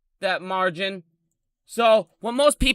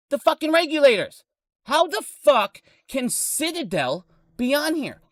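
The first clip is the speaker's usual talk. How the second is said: higher, building indignant rant; rising outrage; 4 semitones higher than usual. Real, not acted. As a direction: climb in pitch as the anger builds. Ranting furiously about regulators.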